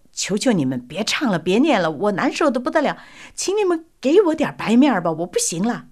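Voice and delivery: hammed-up plea of a man in withdrawal; mock desperate pleading. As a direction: beg them to stop, voice climbing. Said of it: "就嚷嚷了".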